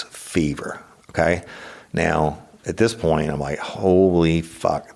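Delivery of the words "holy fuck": drawn-out awed curse; slow stunned curse. Retold or imitated. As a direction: stretch it out, stunned. Reacting to high fever.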